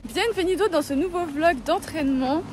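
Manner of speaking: bright welcoming host intro; upbeat vlog intro. Shown as a demonstration. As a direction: open the vlog like a presenter. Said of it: "il faut faire la vraie introduction".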